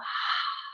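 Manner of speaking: soft breathy sigh out; audible exhale sigh. Shown as a demonstration. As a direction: let a big exhale go. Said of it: "let out a big exhale".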